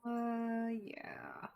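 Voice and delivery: soft whisper. Real, not acted. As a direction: breathe it quietly. Whispers during game.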